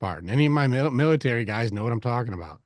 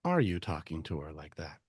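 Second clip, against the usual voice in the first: measured questioning; 6 semitones lower, 6 dB quieter than usual. Acted. Coach echoes wife's question back.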